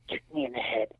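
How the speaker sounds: quick soft aside to the opponent, lips barely moving; a sneaky hushed ring instruction. Retold or imitated. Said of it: "We don't see our mouths move".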